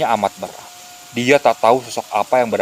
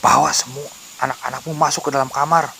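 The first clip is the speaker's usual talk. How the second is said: urgent instruction; 5 semitones higher than usual. A narrator's reading. Elder orders family indoors.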